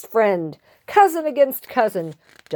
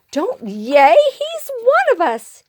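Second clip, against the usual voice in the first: high, urgent protest; scolding yell; 12 semitones higher than usual. Acted. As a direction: cut the cheering off, pitched up. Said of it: "yelled Pip".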